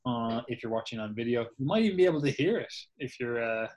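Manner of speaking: talking while munching grapes; mouth full. Real, not acted. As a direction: chew and talk through a mouthful. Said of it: "I am munching down on some grapes here".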